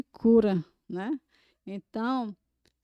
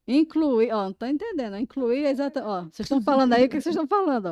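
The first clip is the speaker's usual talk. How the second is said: confused deaf listener; 3 semitones higher, 4 dB louder, faster than usual. Retold or imitated. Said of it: "é assim que ela se sente".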